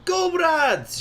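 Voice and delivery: put-on booming Russian-accented cry of comrades; bellowed in Russian accent. Rebel leader rallying the crowd, booming Russian accent. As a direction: bellow it to the whole hall in a thick Russian accent. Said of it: "she bellowed".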